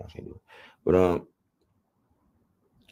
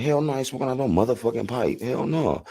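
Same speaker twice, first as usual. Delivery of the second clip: quoting refusal; 7 semitones higher than usual. Retold or imitated. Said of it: "I'm like".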